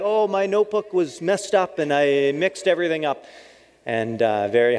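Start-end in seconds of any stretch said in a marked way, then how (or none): 0.0-3.2 higher, quick embarrassed excuse; lightly voiced embarrassed learner; sheepish explanation. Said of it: "And then I'm like".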